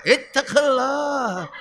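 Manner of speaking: slow, heavy ittaqillah; slow, stern admonition; stern sermon warning. Retold or imitated. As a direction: warn the congregation like a sword. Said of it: "Kalau khutbah itu pedangnya".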